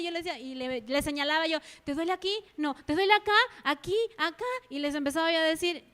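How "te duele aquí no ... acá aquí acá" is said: worried mother. Retold or imitated. Mother pointing, asking crying child.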